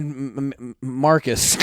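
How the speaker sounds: stuck on the M sound; struggling stutter. Real, not acted. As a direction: stumble repeatedly before getting the name out. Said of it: "I was really struggling there".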